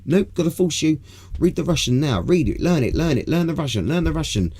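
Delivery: pushy, high-pitched nagging; mock bullying. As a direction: badger them with hammered-out repeated orders. Acted row, forcing to learn Russian.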